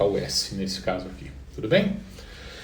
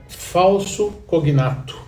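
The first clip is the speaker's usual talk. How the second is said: 1 term introduced slowly; 6 semitones higher, slower than usual. Shown as a demonstration. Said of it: "uma estrutura chamada".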